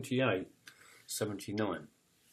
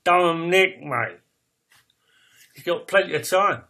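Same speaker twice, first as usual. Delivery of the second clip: mock loud retort; 5 semitones higher, 11 dB louder than usual. Acting out a retold reply.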